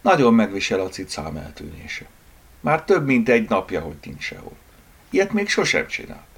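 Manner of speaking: put-on mildly strengthless, worried girl; understated, weary worry; weak voice. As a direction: confide it with a touch of helplessness. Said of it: "folytatta erőtlen hangul a lány".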